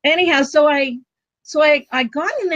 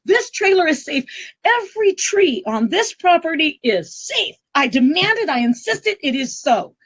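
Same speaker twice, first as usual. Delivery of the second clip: high-pitched, emphatic re-enacted command, settling toward the end; big conviction; 7 semitones higher than usual. Trailer owner commanding away a falling tree, high re-enacted conviction. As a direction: declare it insistently, pitched up, as a retold decree. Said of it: "did it with this big conviction".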